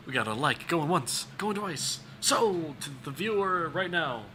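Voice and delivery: playful auctioneer patter, rising calls; hammed-up auction call. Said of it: "auction your voice in".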